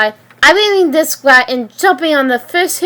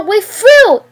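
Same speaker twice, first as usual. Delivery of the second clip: high, loud angry shout; 9 semitones higher, 4 dB louder than usual. Acted. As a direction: shout the breakup at him. Riley screams after her boyfriend.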